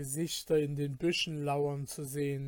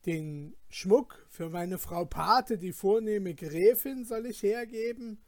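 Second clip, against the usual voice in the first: eager protest; 3 semitones higher than usual. Acted. Felix refuses to surrender his godmother's jewelry, eager. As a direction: defend your godmother's jewels with passion. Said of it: "entgegnete Felix sehr eifrig".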